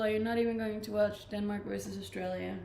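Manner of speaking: ordinary delivery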